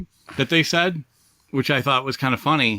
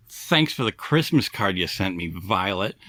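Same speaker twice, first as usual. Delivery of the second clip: low, slow dry thanks; Charlie Brown; 6 semitones lower, slower than usual. Retold or imitated. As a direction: lower the voice, deliver the thanks slowly. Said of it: "he walks up to Violet and he says".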